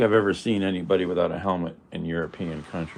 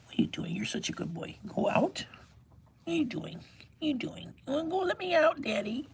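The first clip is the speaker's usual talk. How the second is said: much higher, softer cooing at the cat; 8 dB quieter than usual. Real, not acted. Baby-talk to the cat.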